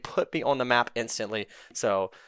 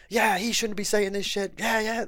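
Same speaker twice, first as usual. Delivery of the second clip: mocking influencers; 9 semitones higher than usual. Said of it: "they're all like".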